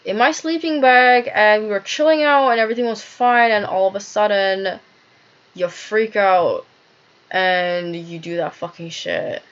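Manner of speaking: angry yelling. Retold or imitated. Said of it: "I'm like".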